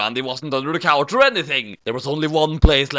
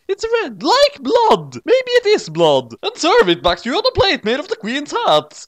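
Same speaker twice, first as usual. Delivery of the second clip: roaring; 12 semitones higher, 4 dB louder than usual. Acted. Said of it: "roared Roger".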